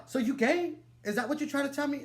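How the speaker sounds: high, rapid accusing question; hurt demanding girlfriend. Retold or imitated. Girlfriend confronting the boyfriend about being gay, high and fast. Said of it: "She's all".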